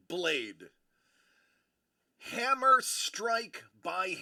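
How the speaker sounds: slow, drawn-out mentor lecture; lightly voiced solemn master. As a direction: preach the forging like a wise old smith, slowly. Grand speech about forging a blade.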